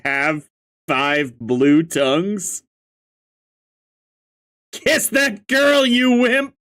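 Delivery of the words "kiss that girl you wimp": high-pitched heckling yell; mock-impatient shout, pitched up; egging on. Fanbase heckling Runt to kiss her, high mock shout.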